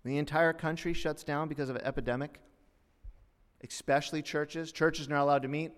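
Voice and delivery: ordinary talk, nothing marked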